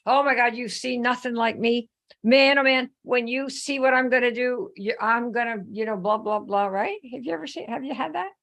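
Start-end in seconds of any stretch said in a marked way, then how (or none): 0.1-6.7 lightly imitating a big-talking new sign-up; mock boastful recruit. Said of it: "they are gonna tell you".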